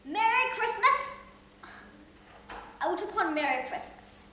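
ranting Scrooge. Acted. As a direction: build the scorn to a peak.

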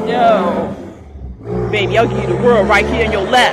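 lightly voiced old man hitting on her; sleazy old man. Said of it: "older man and shit, like".

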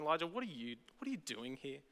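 quiet, coaxing call out of the cave; hushed call to someone hiding; calling him out softly. Acted. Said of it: "calling him out of going".

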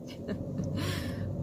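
soft unvoiced chuckle; quick embarrassed laugh; light breathy laugh. Real, not acted. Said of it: "My bad".

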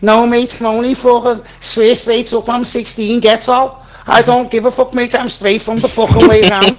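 put-on British accent. Bragging to the others in the game, putting on a British accent. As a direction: act the young British hard man.

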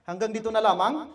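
"Hanggang dito na lamang?" ends on a questioning lift; lightly rising question at the pause. Shown as a demonstration. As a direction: stop as if asking a question. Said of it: "naghihinto na question mark".

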